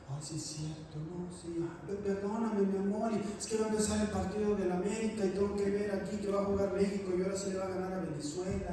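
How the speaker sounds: a lightly voiced dad backing down; sheepish father. Father apologizing to wife, then rushing to the match, mildly sheepish. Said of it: "Y de repente el papá".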